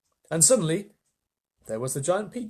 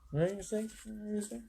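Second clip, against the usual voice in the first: whisper; 6 semitones higher, 10 dB quieter than usual. Real, not acted. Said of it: "whispered question".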